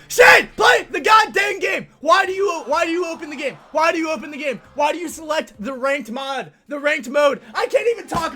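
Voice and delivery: high, loud, stumbling tirade; real angry rant. Real, not acted. Player to teammate who won't play ranked, furious ranting. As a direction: yell furiously, tripping over repeated questions. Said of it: "I'm so mad".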